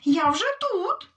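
shout. Acted. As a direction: shout it to the tired hare. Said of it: "а їжак йому кричить". (гучний переможний вигук)

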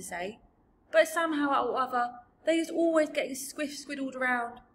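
lightly hurt, rustic giant; sad giant. Acted. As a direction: plead for patience as a muddled giant. BFG laments trouble with words.

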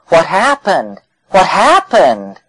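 dazed, baffled questions; bewildered. Retold or imitated. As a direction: act baffled, just coming to. Dazed person after DMT trip.

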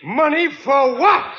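slow, high playing dumb; stalling. Riley stalling the rent collector, slow and feigning confusion.

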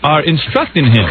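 lightly imitated street debater; man arguing back. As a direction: mildly mimic a man correcting someone, slowing down. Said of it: "the guy says".

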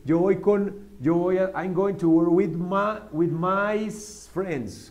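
lightly voiced student mixing languages; a student stumbling between Spanish and English, slowly; imitating a student. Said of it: "O ustedes han visto que uno dice". (imitando a un estudiante que mezcla idiomas)

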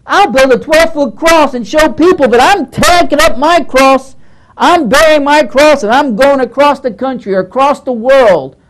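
lampoon the showy cross-carrier; mocking zealot. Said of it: "So you get these silly ideas that".

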